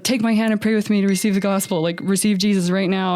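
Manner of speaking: lightly acted desperate appeal; acted urgent pleading. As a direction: press them earnestly, imitating an insistent plea. Retells desperate man urging prayer.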